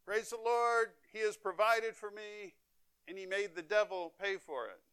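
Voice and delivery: high, loud cry of praise; triumphant shout. Retold or imitated. Old lady answering the atheist, high triumphant shout. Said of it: "threw her arms into the air and shouted".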